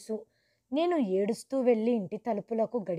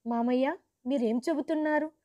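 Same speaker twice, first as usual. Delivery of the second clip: rising, higher, a touch panicked; alarmed question; 3 semitones higher than usual. Retold or imitated. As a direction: ask the uncle in startled alarm. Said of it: "అని కంగారుగా అడిగాను". (కంగారుగా అడగటం)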